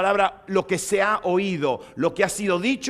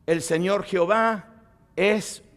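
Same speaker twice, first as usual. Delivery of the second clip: slow solemn recital; slower than usual. Shown as a demonstration. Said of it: "eh, eh, o-, o".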